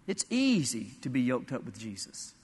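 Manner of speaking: tender pulpit reassurance; reassuring. Acted. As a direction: settle them gently. Drops to soft assurance.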